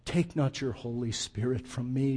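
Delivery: quietly begging, a touch of grief in the voice; anguished plea. Retold or imitated. David begging God not to take the Spirit, hushed anguish. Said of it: "Do you hear the anguish in his voice?".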